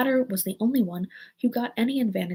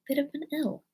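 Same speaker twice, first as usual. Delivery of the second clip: put-on higher, gentle girlish remark; 7 semitones higher than usual. A narrator's reading. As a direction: point it out kindly, lightly. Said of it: "Alice gently remarked".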